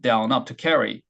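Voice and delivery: to는 낮게, carry는 높게 천천히; carry를 아주 천천히 높였다 내리기; down up intonation. Shown as a demonstration. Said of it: "intonation은 상대적으로 to와 carry를 보게 되면". (to는 낮게 carry는 높게 천천히)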